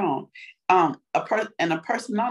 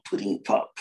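very low, mouth-held mumble; Bill Cosby impression; 13 semitones lower than usual. Shown as a demonstration. Showing how the mouth goes, low Cosby voice. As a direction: drop it low and hold your mouth. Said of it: "You gotta hold your mouth".

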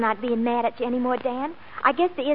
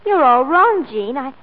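urgent outburst; 10 dB louder than usual. Acted. Millie stopping Jean's mistaken farewell, urgent loud outburst. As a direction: cut her off and set her straight.

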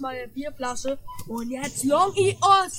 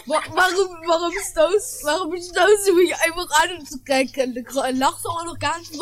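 loud, indignant yelling with laughter breaking through; indignant shout; 3 semitones higher, 4 dB louder than usual. Acted. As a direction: yell at the stranger, half laughing. Quarrel in the grocery line.

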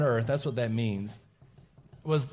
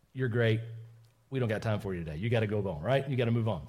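lower, casually dismissive; acted brush-off; 5 semitones lower than usual. Disciples turning kids away from Jesus, low polite brush-off. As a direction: send them away in a low, offhand voice.

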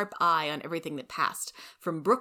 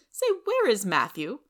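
high and loud, prim and cutting; sharp busybody; 5 semitones higher, 6 dB louder than usual. Acted. Rachel sneering at the Matsons, high and loud. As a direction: lay down the law.

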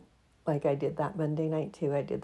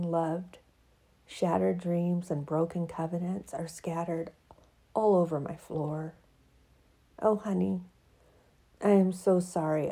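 expressive reading of her own essay; reading her piece. Acted. To her audience, reading her written piece aloud. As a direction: read it like spoken-word prose.

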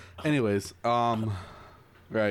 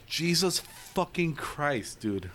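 slow exasperation; 3 semitones higher, slower than usual. Retold or imitated. Retelling exasperation at unmasked Americans.

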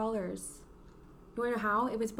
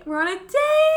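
laughing; 12 dB louder than usual. Real, not acted. Teasing date joke.

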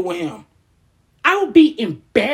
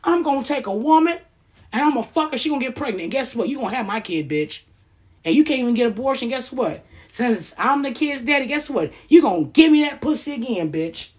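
gloating rapist role. Pretend. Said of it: "if I was like that".

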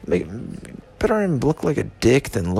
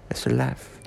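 whispered; 6 dB quieter than usual. Acted. Drunken rambling, repeated line.

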